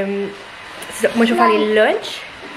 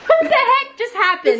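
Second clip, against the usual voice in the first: surprised; 13 semitones higher, slower than usual. Real, not acted. Finds kids in bed.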